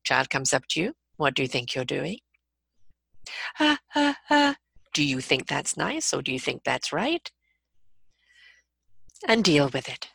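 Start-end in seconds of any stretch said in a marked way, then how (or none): 1.2-2.2 low, controlled parental challenge; softly stern questioning; stern mummy tone. Shown as a demonstration. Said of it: "That tone of voice is there". 3.6-7.3 calm, firm telling-off; parental correction. Shown as a demonstration.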